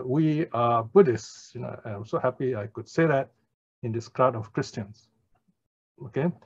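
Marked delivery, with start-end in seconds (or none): 0.0-1.5 deliberately clear, slow statement; retold declaration, spoken slowly for all to hear; slow, mildly emphatic announcement. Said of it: "I make a very clear effort. I say, and loudly".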